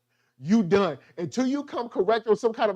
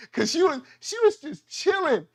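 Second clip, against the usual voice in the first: laughing; 9 semitones higher than usual. Real, not acted. Laughing at librarian.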